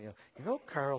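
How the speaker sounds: a hint of a Texas Southern accent; sweet Southern belle. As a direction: imitate a sweet Dallas belle, gently. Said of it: "Southern belle, sweet accent".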